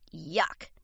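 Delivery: low, soft yuck of disgust. A narrator's reading. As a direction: recoil from a nasty bite. Fox bites into fake food.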